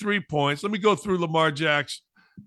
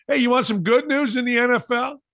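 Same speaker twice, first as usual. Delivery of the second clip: higher and louder, hyped-up call to the audience; bright host hook, pitched high and louder; excited teaser; 7 semitones higher, 4 dB louder, faster than usual. Real, not acted. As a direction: grab the listeners with the good news. Host teasing good news.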